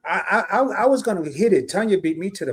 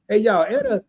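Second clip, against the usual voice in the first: excited greeting; 14 semitones higher than usual. Real, not acted. Greeting sister.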